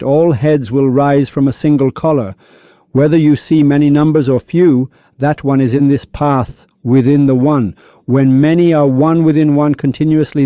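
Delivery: slightly lifted, measured reciting voice; verse recitation. Acted. Teacher reciting couplets on unity to listeners, verse recitation.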